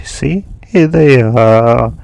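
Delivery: slow, drawn-out taunt; a mildly mocking show-off; teasing. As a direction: dangle it in front of him, gloating. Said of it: "As Naruto would dangle them".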